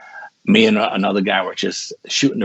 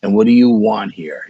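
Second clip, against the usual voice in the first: louder indignant question; mildly mad demand to an intruder; retelling an angry challenge; retold anger; 5 dB louder than usual. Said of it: "I was so mad".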